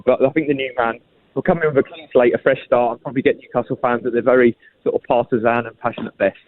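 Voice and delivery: out of breath from climbing stairs; puffing while talking after a climb. Real, not acted. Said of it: "I'm out of breath walking up the stairs now".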